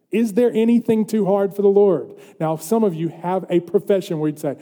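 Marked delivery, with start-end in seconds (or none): 0.1-2.1 raised, ringing challenge; forceful preacher's repeat; emphatic question. Real, not acted. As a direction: proclaim the question to the congregation.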